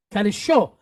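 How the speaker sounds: "Kadesho" with a little oomph on "sho"; stress on last syllable. Shown as a demonstration. Teacher showing the class the stress, oomph on the end of "Kadesho". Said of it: "Give it a little oomph".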